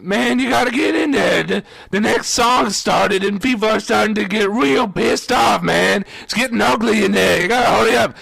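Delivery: acted-out worried coworker; urgent warning. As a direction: hurry him back to work. Coworker urges him back inside.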